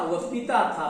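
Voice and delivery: पिता said with a short first vowel; quick short i in पिता, as in father. Shown as a demonstration. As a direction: keep the "pi" of पिता brief. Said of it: "पी रस्व है".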